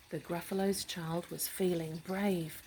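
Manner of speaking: steady rhyming storytelling; story narration. A narrator's reading. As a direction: read it calmly to a child.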